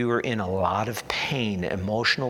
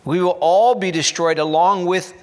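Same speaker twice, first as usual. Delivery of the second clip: louder, higher panicked plea; raised voice of a town in panic, pleading to send the ark away; mock cry of alarm; 4 semitones higher, 5 dB louder than usual. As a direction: cry out like frightened Philistines begging. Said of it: "they cried out".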